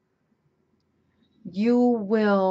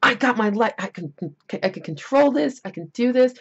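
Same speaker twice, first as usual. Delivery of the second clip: confident resolve; 4 semitones higher, 4 dB louder than usual. Retold or imitated. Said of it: "It feels like".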